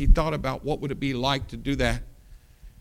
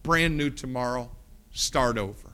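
tender forgiveness. Acted. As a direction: gently lift the debt off him. King forgiving the debtor.

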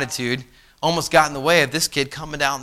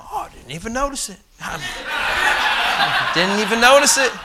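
mock-casual fib with a laugh; feigned innocence; 6 semitones higher, slower than usual. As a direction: play innocent, drawing out the repeat.

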